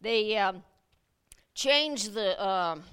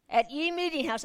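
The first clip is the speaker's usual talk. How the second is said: higher pompous mock of archaic talk; old-fashioned pilgrim speech; 5 semitones higher than usual. Shown as a demonstration. Pastor savoring the King James wording in mock pilgrim voice. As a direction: savor the old-timey phrasing. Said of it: "they used to talk like this".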